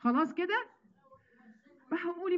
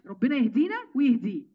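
ربنا يهدينا ويهديه louder, stressing يهدينا; firm blessing; 4 dB louder than usual. Real, not acted. Preacher to sisters, ending the argument, louder and firm. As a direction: say it out firmly, closing the matter. Repeats blessing with more force.

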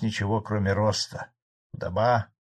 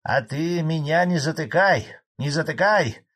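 loud, higher, spiteful comeback; angry retort; 7 semitones higher, 5 dB louder than usual. A narrator's reading. Old farmer rebuffs Frolov's interruption, angrily. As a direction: snap back and refuse to be silenced. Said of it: "злобно ответил старый колхозник".

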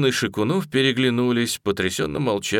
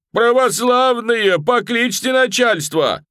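slow, high, loud bellow to the crowd; booming yell; 13 semitones higher, 7 dB louder, slower than usual. A narrator's reading. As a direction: roar out to the onlookers. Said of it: "Лапоть заорал неожиданно зычно". (зычно орёт, растягивая)

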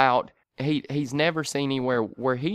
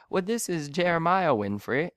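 higher, lightly British caller; imitated British accent; 4 semitones higher than usual. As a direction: introduce yourself as a mock Brit. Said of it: "sort of a British accent".

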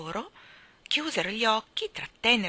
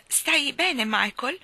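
high, louder worried question; anxious; 8 semitones higher, 6 dB louder, much slower than usual. A narrator's reading. Jane checks on her brother, anxious. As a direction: check on him with concern. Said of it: "si informò con ansia Jane".

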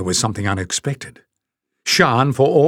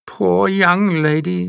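high, slow sly murmur; 8 semitones higher, slower than usual. A narrator's reading. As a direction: murmur fake sympathy. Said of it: "murmured Jinx".

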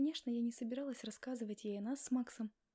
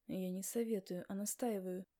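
firm, lowered husband insisting; resolute; 3 semitones lower than usual. Acted. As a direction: lay down the law, lightly. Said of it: "произнёс муж решительно".

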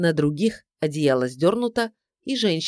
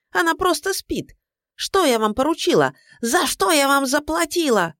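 berating; 7 semitones higher than usual. A narrator's reading. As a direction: tear into the hired man. Client berates detective. (гневная отповедь, громко и высоко)

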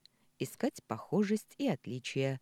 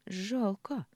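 higher, drawn-out, falling word of disappointment; disappointed; 6 semitones higher than usual. A narrator's reading. Daughter regrets it isn't her father's baby, disappointed. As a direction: let it fall in open regret. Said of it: "разочарованно протянула Ксения".

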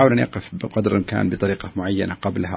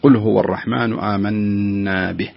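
slow, pausing cleanly after به; teacher's correct model of the pause; stopping on a still letter; slower than usual. Shown as a demonstration. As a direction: recite slowly and stop on a still letter at به. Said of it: "فالصحيح أن تقول".

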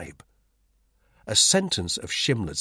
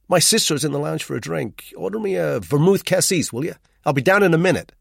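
brisk, lightly voiced cheerful Skelton, higher and louder; breezy Englishman; 7 semitones higher, 6 dB louder than usual. A narrator's reading. Skelton cheerily greets the gloomy narrator in the hall. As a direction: hail a gloomy friend with bright energy.

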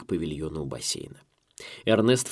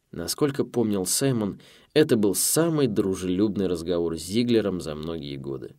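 ordinary delivery

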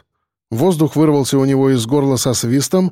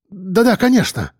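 торопливо; 6 semitones higher than usual. A narrator's reading. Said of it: "торопливо отозвался Евгений".

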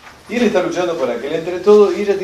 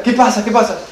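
mother calling; 7 semitones higher than usual. Retold or imitated. Mother answers child's yell.

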